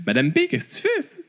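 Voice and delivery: high, teasing call across the room. Pretend. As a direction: call out playfully to someone far away. Calling out to the absent letter writer.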